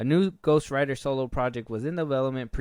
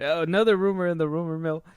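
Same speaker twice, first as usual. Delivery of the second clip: announcer read; 6 semitones higher, 7 dB louder than usual. Shown as a demonstration.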